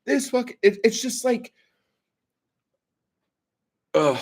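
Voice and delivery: hammed-up disbelief; mock shocked guy. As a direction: play his stunned outrage for laughs. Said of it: "he's like".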